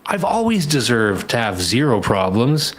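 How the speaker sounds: hammed-up entitled whine, voice leaping up; smug chump. Podcaster mocking a chump who wants his problems gone, hammed-up whiny voice. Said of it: "some chump who says".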